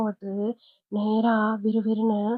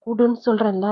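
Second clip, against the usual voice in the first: louder, stern order; a father's firm rebuke; threatening father; 4 dB louder than usual. Acted. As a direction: lay down the law to the son. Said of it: "மிரட்டுறாரு".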